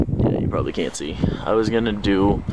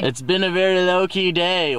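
pitched way up, squeaky and light; high squeaky voice; 10 semitones higher than usual. Shown as a demonstration. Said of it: "Why can't I talk?".

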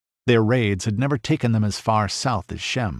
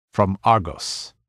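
curt; 2 semitones lower than usual. Acted. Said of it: "he answered shortly".

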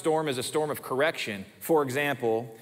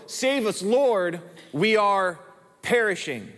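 desperate plea; 5 semitones higher, slower than usual. Acted. Disciples' plea repeated.

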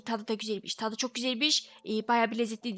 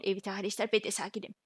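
much softer, held-in voice; quiet, holding it all in; forced calm; 3 semitones lower, 7 dB quieter than usual. Acted. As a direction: say you're calm through clenched teeth. Insisting he is calm.

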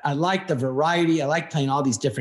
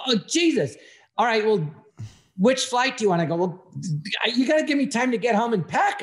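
higher, rushed and flustered; 5 semitones higher than usual. Retold or imitated. Caught off guard by a late booking call, flustered and high. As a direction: thrown by a last-minute call, voice up high.

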